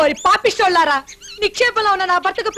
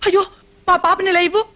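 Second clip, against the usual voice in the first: crying plea. Acted. Mother snatching her child back.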